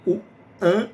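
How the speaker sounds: nasalized an, drawn out; an with the A through the nose; nasal an. Shown as a demonstration. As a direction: say an as a nasal vowel. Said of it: "É um an meio assim".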